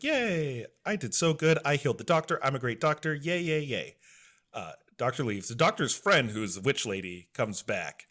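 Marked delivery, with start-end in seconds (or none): 0.0-4.0 higher-pitched, pleased little cheer; mock a proud kid's celebration; childlike cheering. Chopper thinks he healed the doctor, gleeful cheering.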